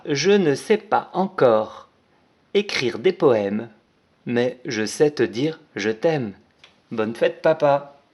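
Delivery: slow, careful dictation of the card message. Shown as a demonstration. Teacher dictating the card message to young pupils, slow. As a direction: read it out slowly, word by word. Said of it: "Ce message, ce sera".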